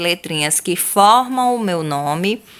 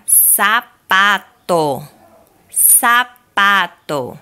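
slow, drawn-out sapato; slow clear word; 2 semitones higher, 3 dB louder, much slower than usual. Shown as a demonstration. Teacher modelling "Sapato." slowly for pupils. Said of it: "na letra D de dado a palavra sapato".

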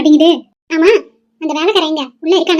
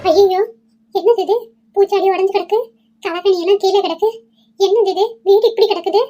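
higher-pitched alarmed exclaiming; shocked dismay; 4 semitones higher than usual. Acted. Mother-in-law finding the house ransacked, shocked dismay. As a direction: cry out in dismay at the mess.

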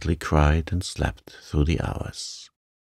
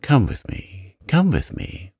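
high, urgent plea; acted alarm, higher and insistent; panicked urging; 7 semitones higher than usual. A narrator's reading. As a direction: urge them along, pitch climbing on the repeat. Panicked woman urging the officer.

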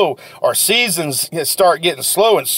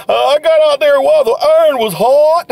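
a higher, louder put-on voice, offhand boast; proud seller; 7 semitones higher, 4 dB louder than usual. Seller telling the amazed customer his secret, proud and higher. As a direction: answer like a seller with a simple secret. Seller answering in retold scene.

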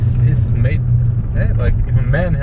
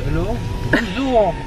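put-on French accent; 7 semitones higher, 4 dB quieter than usual. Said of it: "Why are you saying bonjour to".

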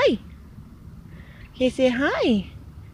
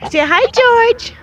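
high sing-song prompt; 11 semitones higher, 5 dB louder than usual. Real, not acted. Urging goose to greet George.

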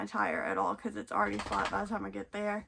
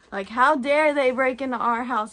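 louder, hammed-up how dare they; mock offended outburst; mock indignation; 8 dB louder than usual. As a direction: play up the dog's outrage. Mock outrage at dog logic.

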